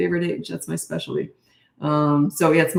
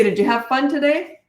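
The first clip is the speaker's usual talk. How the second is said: put-on bright, light question to her kid, pitched higher; cheerful check-in; 8 semitones higher than usual. Shown as a demonstration. Mom asking kid after school, cheerful and light. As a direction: keep it easy and upbeat, no pressure. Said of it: "Just say".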